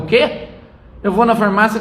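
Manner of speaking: high, loud, outraged retort; indignant daughter. Retold or imitated. Father retells daughter's outburst at the doctor, outraged and loud.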